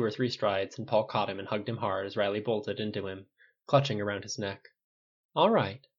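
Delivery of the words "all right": calm, higher-pitched reassurance. A narrator's reading. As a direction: soothe him calmly. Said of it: "Paul said very calmly over his head".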